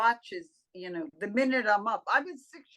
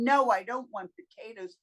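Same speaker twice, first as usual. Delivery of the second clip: heavy, flat no to potatoes; negative refusal. Shown as a demonstration. Speaker demoing the heavy way to refuse food. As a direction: say it like a burden. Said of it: "Instead of saying".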